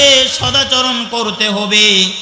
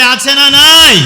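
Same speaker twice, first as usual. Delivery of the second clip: loud call to crowd; 3 semitones higher, 7 dB louder than usual. Real, not acted. Preacher calling the congregation to answer loudly. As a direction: shout the question out. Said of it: "কথা বলতে হবে".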